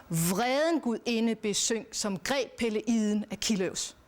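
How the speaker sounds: slow, weighty hexameter reading; slow, grave reading of Homer; solemn epic recitation. Shown as a demonstration. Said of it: "Det er anderledes alvorligt".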